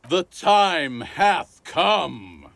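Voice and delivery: slow, drawn-out, high and loud proclamation; retold scream. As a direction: bellow it like a drunk prophet. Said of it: "screamed at the top of your lungs".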